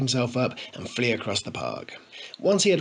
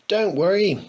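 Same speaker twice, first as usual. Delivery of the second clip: laughing; 8 semitones higher, 5 dB louder than usual. A narrator's reading. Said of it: "gasped Harry between fits of laughter".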